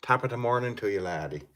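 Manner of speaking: lightly put-on Irish accent; a hint of Irish brogue. Shown as a demonstration. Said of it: "said that in Irish accent".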